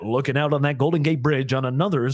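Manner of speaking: American broadcaster impression; smooth American media delivery. Shown as a demonstration. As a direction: read it like a US TV presenter. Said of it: "The media voice is that".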